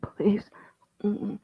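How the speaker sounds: soft pleading mumble; mumbling. Acted. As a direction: barely get the words out. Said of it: "I mumble".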